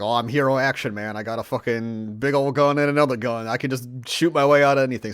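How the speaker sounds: loud, boastful macho bragging; mock action hero. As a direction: swagger it like a dumb hero. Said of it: "the guy's like".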